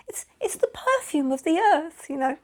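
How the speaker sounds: high-pitched, stammering mock protest; acting out a flustered justification; flustered defence. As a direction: plead your case in a small high voice. Retelling own flustered defence.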